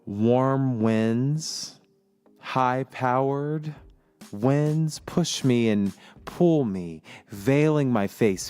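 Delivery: slow, dreamy reading of his notes; poetic reading. Acted. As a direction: read it like a spoken-word poem. Reads his poetic notes aloud.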